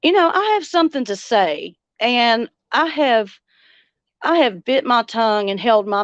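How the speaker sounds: talking around a cigarette; lighting a cigarette while talking; cigarette in mouth. Real, not acted. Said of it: "I haven't even lit my cigarette yet".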